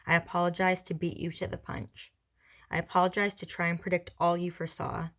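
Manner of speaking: measured recital with a pause after each line; poem reading. Acted. Writer reading past poem on film, measured recital. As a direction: read each line as a separate, even statement. Reads own poem aloud.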